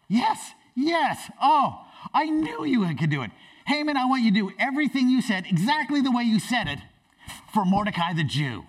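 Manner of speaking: high, loud, gushing king; coşkulu kral. Acted. Acting delighted king rewarding Mordecai.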